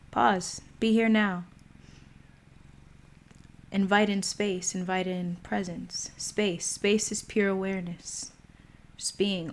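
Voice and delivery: calm, spaced-out meditation phrases; guided meditation. Acted. Host guiding live viewers into a pause, meditation voice. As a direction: guide listeners into a pause, one phrase at a time. Leads a short mindful pause.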